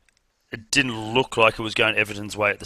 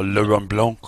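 French pronunciation; 4 dB louder than usual. Pretend. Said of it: "sounds better when you put the accent".

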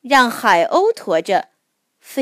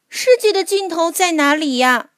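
little mole voice; 6 semitones higher than usual. A narrator's reading. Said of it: "小鼹鼠问".

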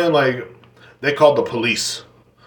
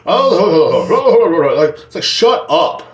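mock annoyed; 5 semitones higher, 4 dB louder, much slower than usual.

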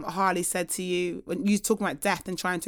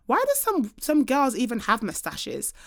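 put-on child's question; 3 semitones higher than usual. Mother voicing her small daughter's innocent question. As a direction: ask it like a curious little girl.

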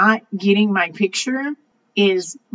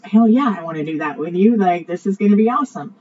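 excited yes; 4 dB louder, faster than usual. Retold or imitated. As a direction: fire up, fast and thrilled. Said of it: "I was like".

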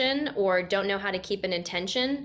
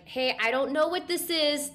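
higher mock yell without real volume; retold yelling; 7 semitones higher than usual. Newcomer interrupting the sound bath, mild mock yell. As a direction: imitate calling out in alarm. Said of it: "I'm yelling out there".

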